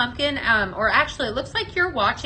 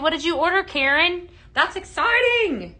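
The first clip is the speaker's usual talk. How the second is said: higher, delighted reaction; excited; 6 semitones higher, 3 dB louder than usual. Real, not acted. Host cheering a viewer's order, excited. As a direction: gush with rising pitch, stretching the last words.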